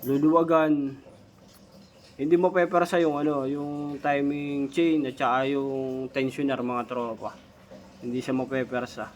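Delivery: speaking through a gap in the front teeth; lisping slightly from missing teeth. Real, not acted. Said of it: "bungi kasi ako".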